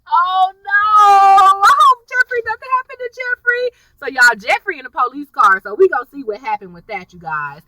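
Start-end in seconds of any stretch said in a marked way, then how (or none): 0.1-3.7 much higher, hammed-up fretting voice; mock worry. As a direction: play the worried fan gasping over him. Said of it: "I was like".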